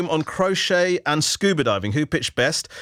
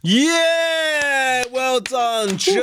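excited cheer; 10 semitones higher, much slower than usual. Real, not acted. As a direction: cheer the caller over the finish line. Host cheers end of pitch.

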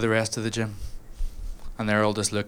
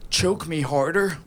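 desperate higher plea; 6 semitones higher, slower than usual. Retold or imitated. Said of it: "So I just go".

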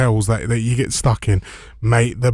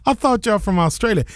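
put-on American old boy; 9 semitones higher than usual. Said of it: "he goes".

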